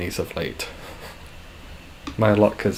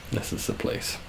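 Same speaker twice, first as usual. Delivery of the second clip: soft breathy whisper, almost no voice; whispered punchline; 10 dB quieter than usual. Acted. Streamer whispering the punchline of his self-mocking pitch to viewers. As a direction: let the last words fall to a whisper.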